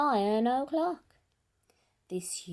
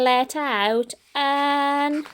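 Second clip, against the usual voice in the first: frightened eek; 4 semitones higher, 10 dB louder, much slower than usual. Acted. Lion's tiny eek.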